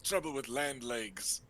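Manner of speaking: flamboyant uncle. Acted. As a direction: play the charming rogue host.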